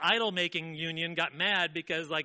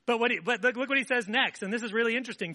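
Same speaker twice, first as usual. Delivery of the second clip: emphatic; 6 semitones higher, 5 dB louder than usual. Real, not acted. Preacher raises voice for point.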